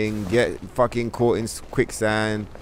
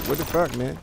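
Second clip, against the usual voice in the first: light, higher, slightly softer hopeless sigh of a phrase; really light tone; 3 semitones higher, 4 dB quieter than usual. Shown as a demonstration. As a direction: demo the giving-up voice, lifted and light. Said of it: "in a really light tone like that".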